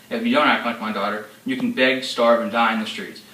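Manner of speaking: loud, relentless fury; raging father. Acted. Father threatening his disobedient daughter, loud and furious. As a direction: let the anger boil through every line.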